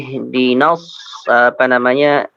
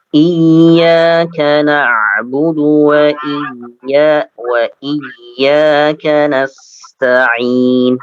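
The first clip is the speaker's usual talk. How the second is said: slow chanted recitation of Iyyaka na'budu; Quran recitation; much slower than usual. Shown as a demonstration. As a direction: recite slowly and melodically. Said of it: "teacher models Quran recitation".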